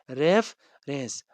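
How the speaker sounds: "रेफरेंस" drawn out slowly, syllable by syllable; slow demo word. Shown as a demonstration. Teacher models the new word for the class, slow and deliberate. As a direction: stretch "रेफरेंस" out slowly so students can follow. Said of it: "R E F E R E N C".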